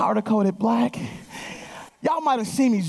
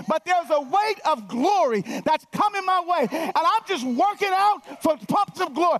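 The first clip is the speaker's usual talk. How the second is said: rising preaching fervor; 6 semitones higher than usual. Real, not acted. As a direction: pitch climbs higher as the preacher gets fired up. Preacher building to high pitch.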